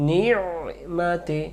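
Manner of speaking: নিমাতি slow with ayn from the throat; careful tajweed. Shown as a demonstration. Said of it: "এই যে গলায় লাগছে".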